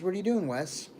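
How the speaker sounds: lightly voiced uncle calling out; imitating uncle. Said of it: "He didn't say it like that, but I'm not gonna do his voice again".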